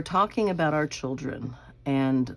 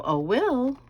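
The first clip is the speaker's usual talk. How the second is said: high, drawn-out call with a falling end; sing-song call; 10 semitones higher than usual. Shown as a demonstration. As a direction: call her son from the kitchen, sing-song. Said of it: "I have a way of calling him".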